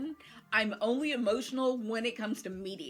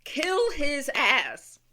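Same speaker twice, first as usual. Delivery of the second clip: egging on; 4 semitones higher, 5 dB louder, much slower than usual. Real, not acted. Cheering on a TV killing.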